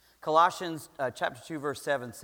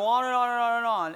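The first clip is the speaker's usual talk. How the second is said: running on; 4 semitones higher, 4 dB louder than usual. Retold or imitated. Mimicking his endless venting.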